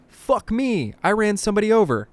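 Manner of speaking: high, loud, rushed alarm; panicked outburst. A narrator's reading. Cabbie realises he ran somebody over, panicked. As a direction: burst out in panic, pitch jumping up. Driver panics after hitting someone.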